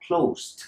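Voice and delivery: "closed" as one syllable, no E sound; E left silent. Shown as a demonstration. Teacher models the past of close for learners, E silent. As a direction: say "closed" with the E dropped. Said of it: "Just don't pronounce the E".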